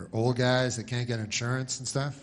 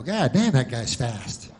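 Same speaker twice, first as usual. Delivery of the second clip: amazed onlooker; 4 dB louder, slower than usual. Acted. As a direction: act out a bystander's exclamation.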